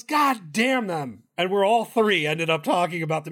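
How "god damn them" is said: put-on old Italian guy cursing. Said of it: "He goes".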